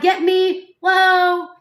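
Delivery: high, loud imitation of glee; hammed-up excited squeal; mock excited. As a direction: whoop it as if playfully thrilled. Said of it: "That's not, like, fake smiling".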